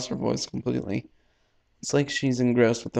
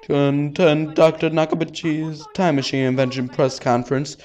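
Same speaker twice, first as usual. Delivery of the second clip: formal announcer; 3 semitones higher, 5 dB louder than usual. Acted. Host opening the press conference, formal and loud. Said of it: "Dim microphone voice".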